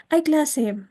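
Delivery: "Hay clase" starting high and strong, then falling; exclamation, high then low. Shown as a demonstration. Teacher demonstrating an exclamation to class, high then falling. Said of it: "Agudo, ah, y bajo".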